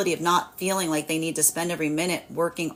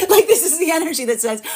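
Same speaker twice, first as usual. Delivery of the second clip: high, giggly and louder; laughing; 9 semitones higher, 5 dB louder than usual. Real, not acted. Laughing after voicing the broken craft. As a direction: giggle through it.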